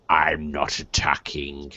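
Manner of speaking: quiet menacing villain; low sneering threat; villain aside. Acted. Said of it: "said the Dark One".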